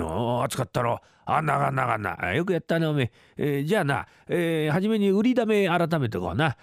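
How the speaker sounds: a hint of a gruff Edo townsman; old Edo uncle. Rakugo uncle voiced.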